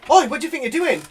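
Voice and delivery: shouting. Retold or imitated. Shop worker catches him stealing.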